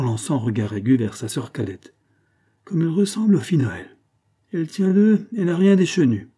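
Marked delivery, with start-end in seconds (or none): 2.6-6.3 high-pitched aunt's voice; raised pitch, critical appraisal; disapproving exclamation. A narrator's reading. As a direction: exclaim it high, as a verdict on the niece. Stern aunt exclaims over her niece.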